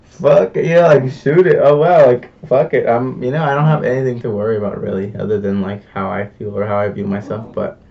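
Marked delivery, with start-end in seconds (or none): 0.0-2.9 louder, letting go; carefree decision. Retold or imitated. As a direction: toss caution aside with a shout. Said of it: "and I was just like".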